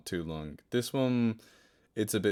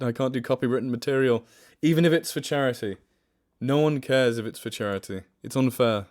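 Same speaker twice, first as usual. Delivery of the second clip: complaining to chat about copyright rules; mock rant; 2 semitones higher, 6 dB louder than usual. Real, not acted.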